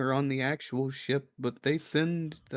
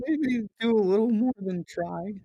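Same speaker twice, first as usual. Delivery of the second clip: emphatic correction; 6 semitones higher, 4 dB louder than usual. Acted. Villager corrects an understatement, then repeats it.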